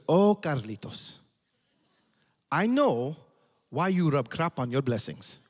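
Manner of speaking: slow, drawn-out fatherly quote; lightly voiced dad. Dad to his struggling son about blessings, lightly voiced, slow. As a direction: draw it out like a knowing dad. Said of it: "And he goes".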